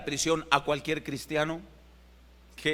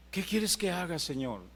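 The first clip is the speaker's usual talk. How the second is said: soft plea; 7 dB quieter than usual. Acted. Preacher voicing Saul's plea softly.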